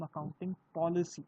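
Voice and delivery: "accounting policy" leaned on, with extra weight on "policy"; stress on accounting policy. Real, not acted. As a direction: emphasise the words "accounting policy" as the key term. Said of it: "I'm emphasizing on the word accounting policy".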